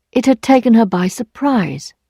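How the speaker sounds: usual speaking voice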